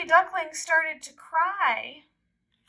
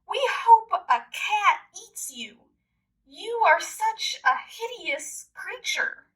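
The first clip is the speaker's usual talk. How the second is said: yelling taunt; 5 semitones higher, 4 dB louder than usual. Acted. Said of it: "Sometimes they yelled".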